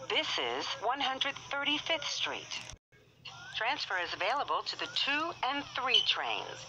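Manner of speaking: choppy automated subway announcement; pieced-together recorded phrases, uneven joins; spliced together words. Real, not acted.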